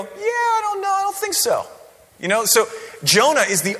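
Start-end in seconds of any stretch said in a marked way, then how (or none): 0.0-1.7 high, far-off dismissive voice; mock brushing off. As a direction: shrug off God's call in a silly high voice. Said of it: "you don't get to go".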